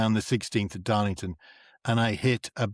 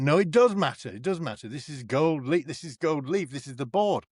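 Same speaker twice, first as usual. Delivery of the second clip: retold dad's indignant objection, pitched up at first; insistent protest; 4 semitones higher than usual. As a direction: imitate a worked-up dad insisting. Retold dad insisting on the phone row.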